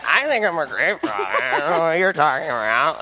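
lightly voiced defensive father; hint of an imitated dad in denial; mock dad protest; Dean's dad. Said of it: "your imitation of, of Dean's dad".

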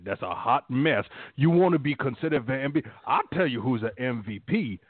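a hint of a folksy southern lineman holding court; Whitworth impression. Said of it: "the speaker's impersonation of Whitworth".

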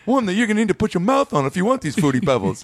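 high cartoon gangster voice; threatening Barney. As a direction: lay down terms coolly. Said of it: "He goes".

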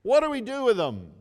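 loud, high, fast repeat of the shout; repeating the senator's loud, high cry; shouted demand. Retold or imitated. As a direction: hurl the question at the balcony. Retelling senator's shouted question.

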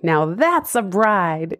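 put-on slow, lightly done Italian Jersey accent. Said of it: "in her classic Italian accent, Italian Jersey".

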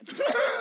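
high, loud burst of laughter. Real, not acted. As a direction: break into laughter. Laughing at the story.

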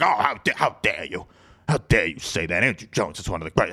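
lightly put-on Boston accent. Host imitating fans defending Andrew Jones, Boston accent. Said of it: "That's a good Boston accent".

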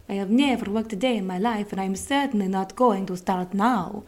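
mock Italian accent, hammed up; a clumsy Italian accent; bad Italian accent. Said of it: "That was a really, really bad Italian accent".

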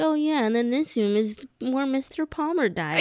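lightly acted casual guide; offhand mock tour patter; nonchalant tour guide. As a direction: point it out as if it were nothing. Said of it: "I could imagine them nonchalantly being like".

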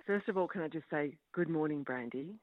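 sexy voice. Pretend. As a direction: purr it like a Valentine's flirt. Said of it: "my best attempt at a sexy voice".

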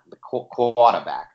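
slow, halting mock Boston accent. Host having one last go for his partner, mock Boston accent. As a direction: drag out a Boston "quarterback", R dropped. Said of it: "You gotta say it in a Boston accent".

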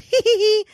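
high imitated little giggle; toddler giggle. Mother imitating her toddler's reaction, giggly. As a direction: mimic a toddler's mischievous tee-hee. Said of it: "and he giggles".

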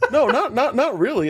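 laughing it off, high pitched; giggling through a gentle no. Real, not acted. Laughing denial to old man question.

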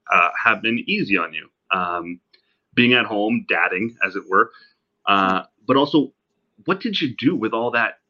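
distant laptop mic sound; like it's recorded from the next room; from another room. Real, not acted. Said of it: "me sounding like I'm talking from the other room".

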